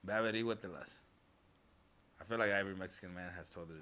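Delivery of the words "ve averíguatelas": mimicking a stern dad. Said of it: "what my dad tells me".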